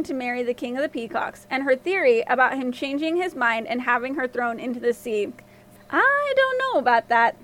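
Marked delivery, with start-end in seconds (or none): 5.9-7.4 put-on kindly old man, pitched up. A narrator's reading. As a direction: reassure with a lifted, acted old-man voice. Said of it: "the old man said kindly".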